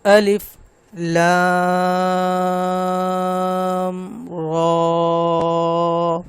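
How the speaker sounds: alif lam ra drawn out in slow chanted recitation, long madd on لام; tajweed-style recitation of الف لام را with prolonged vowels; Quranic recitation. Shown as a demonstration. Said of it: "پڑھ کے بتاتا ہوں".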